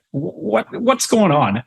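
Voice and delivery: high, baffled retold question; startled what's-going-on; confused. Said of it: "so now I'm, I'm really confused".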